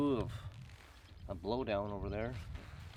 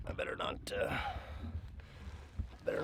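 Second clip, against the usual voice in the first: whispered aside; 8 dB quieter, faster than usual. Real, not acted. Kids nearby, quiet.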